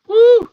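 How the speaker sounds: loud, high-pitched "woo"; high whoop. Real, not acted. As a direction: let out a sudden high whoop. Reacting to being called Fluffy.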